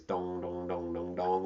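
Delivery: ringing, sing-song dong sounds on one note; imitated pinball bouncing. Shown as a demonstration. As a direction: mimic a pinball bouncing between bumpers.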